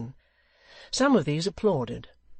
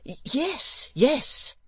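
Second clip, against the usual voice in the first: put-on very high, excited young voice; eager Barnaby; 12 semitones higher, 4 dB louder, much slower than usual. A narrator's reading. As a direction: blurt it out, stammering with delight. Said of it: "with sparkling eyes".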